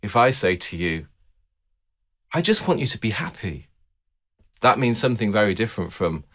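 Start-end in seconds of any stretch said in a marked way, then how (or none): 2.3-3.7 gentle, earnest wish, stress on just; mean every word of it; sincerely wishing them happiness. Shown as a demonstration. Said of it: "you can hear there's a different music in the way I say it".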